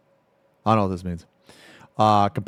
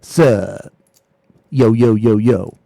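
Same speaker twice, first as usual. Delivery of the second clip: loud, acted-out typed greeting; hammed-up chat opener; 9 dB louder, much slower than usual. Streamer acting out his messages to her, hammed-up and loud. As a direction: throw out a loud, cocky hey. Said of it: "I'd be like".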